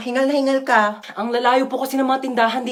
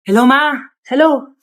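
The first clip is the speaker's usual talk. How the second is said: calling out; 3 semitones higher, 6 dB louder than usual. Acted. Child calls out to mother.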